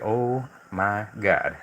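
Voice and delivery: very slow, drawn-out amazement; stunned, acting out a first look at heaven; imagined awe. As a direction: stretch each word in pretend wonder.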